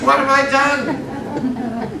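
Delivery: slow, high, drawn-out disbelieving question; stunned disbelief. Retold or imitated. Answering the conference director, stunned and slow. Stunned reply to his friend.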